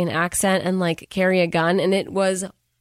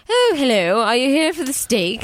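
higher-pitched put-on hello; mock awkward greeting; 5 semitones higher than usual. Caught man greeting acquaintances at restaurant, mock awkward. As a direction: lightly act a flustered social greeting.

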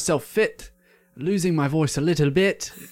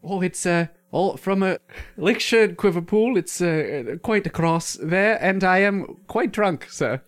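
silly fake English accent; 3 semitones higher than usual. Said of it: "It's hard with your accent".

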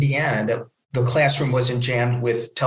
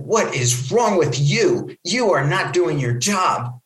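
higher, slow, emphatic scolding; mock screaming tirade; 4 semitones higher, slower than usual. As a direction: act out an outraged caller, no real shouting. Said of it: "I started to scream at the guy".

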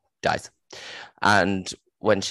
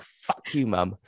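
mock teen retort; slower than usual. Daughter snapping back at her mother, mock. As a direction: toss it off like a sulky teen. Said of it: "the daughter will be like".

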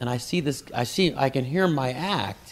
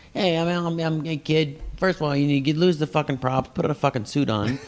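mock yell; 4 semitones higher than usual. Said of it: "He's yelling at me in the kitchen".

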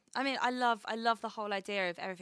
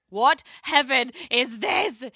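retold delight; 5 semitones higher, 11 dB louder, much slower than usual. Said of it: "she was like".

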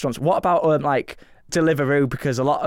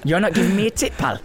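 affronted Scouse waiter; put-on Liverpool accent; 2 semitones higher than usual. Waiter refused a tip by diner, put-on Liverpool accent. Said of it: "sort out his accent".

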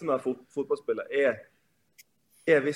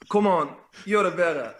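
imitating a coach's yell, only slightly raised; mock sideline shout; 2 semitones higher than usual. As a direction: half-shout it like a nagging coach. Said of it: "sånn der skrik fra sidelinjen". (etterapet rop fra sidelinjen)

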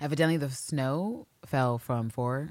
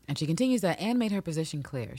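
ordinary delivery

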